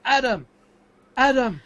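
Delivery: shouted name, pitched high; urgent shout across the garage; calling out. Acted. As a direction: yell to get his attention. Calling out to friend wearing headphones.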